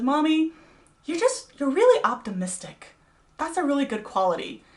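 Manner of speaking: imitating her young son. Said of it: "He says".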